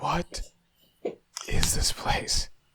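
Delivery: whisper full of awe and dread. Asking in character what this place is: whispered in awe and dread. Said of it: "whispered out in, in almost awe, but also dread and fear".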